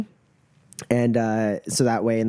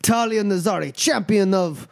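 high announcer-like introduction; ceremonial fight master; 8 semitones higher than usual. Acted. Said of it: "and he goes".

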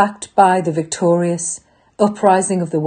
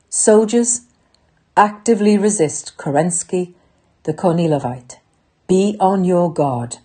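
ranting dictator speech. Acted. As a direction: stir the troops to fight. Rallying call to soldiers, workers.

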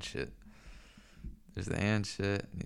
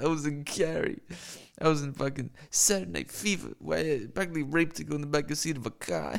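John Travolta impression; 5 semitones higher than usual. Streamer doing a shitty impression for chat, lightly voiced. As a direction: introduce yourself as the star, with giggles. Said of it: "That was a shitty impression".

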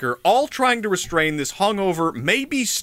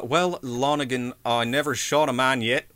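put-on Australian accent; 3 semitones lower than usual. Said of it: "I don't know if I can do an Australian accent".

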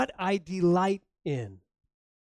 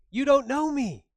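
indignant; 8 semitones higher, 7 dB louder than usual. Retold or imitated. Wife's indignant punchline.

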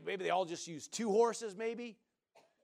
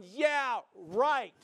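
sarcastic; 3 semitones higher, 3 dB louder than usual. Retold or imitated. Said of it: "And they're going".

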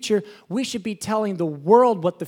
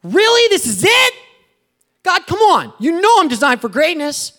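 much higher and louder, shouting at God in disbelief; exasperated outcry; 9 semitones higher, 10 dB louder than usual. Retold or imitated. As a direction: cry out up high, fed up with clearing ground. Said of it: "You're like".

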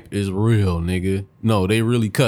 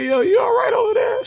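mock concern; 3 dB louder than usual. Retold incredulous question.

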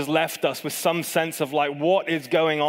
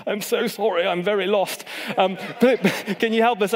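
higher-pitched British accent, hammed up for an apology; best British accent; 5 semitones higher than usual. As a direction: plead for help as a lost, apologetic Brit. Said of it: "my best British accent".

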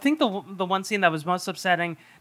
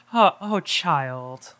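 Cage impression; much slower than usual. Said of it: "he's like".

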